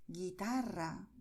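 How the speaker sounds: guitarra with the stress on TA; guitarra, deliberate, middle syllable stressed; penultimate stress. Shown as a demonstration. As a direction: lean on TA in guitarra. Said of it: "acentuamos la penúltima sílaba".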